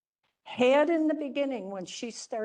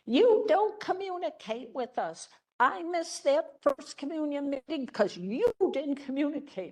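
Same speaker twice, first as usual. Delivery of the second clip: higher-pitched mock angry complaint; imitating a screaming mom; 5 semitones higher than usual. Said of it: "one of the moms was screaming at me".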